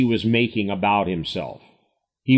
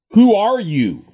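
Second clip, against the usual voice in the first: sharp raised demand of the crowd; loud challenge; 9 semitones higher, 5 dB louder than usual. Acted. Crowd challenging Jesus, raised and loud. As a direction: fire the question back, higher and louder.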